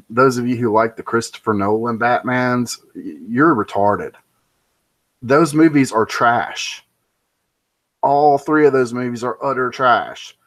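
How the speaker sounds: emphatic, declarative verdict; firmly emphatic put-down. Real, not acted. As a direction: land the condemnation with full conviction. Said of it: "completely emphatically".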